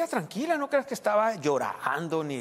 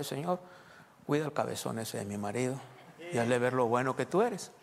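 quoted prayer; 3 semitones lower than usual. Retold or imitated. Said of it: "nada más oré".

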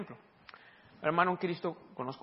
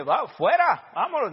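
louder, higher, brusque command; retold order out; 6 semitones higher, 9 dB louder, slower than usual. Preacher ordering the family out of the hospital room, loud. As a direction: clear the room.

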